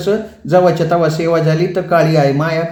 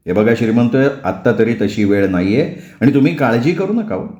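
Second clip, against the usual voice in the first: lower, steady reassuring doctor; lightly voiced doctor, lower; calm doctor; 3 semitones lower than usual. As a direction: settle a scared husband.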